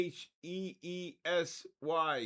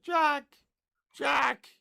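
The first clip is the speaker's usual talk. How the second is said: high, hammed-up cry for Jack; a mock Rose calling Jack from the water; Titanic girl calling; 8 semitones higher, 3 dB louder than usual. Streamer calling a winner named Jack, hammed-up high Titanic cry. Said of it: "the girl on the Titanic".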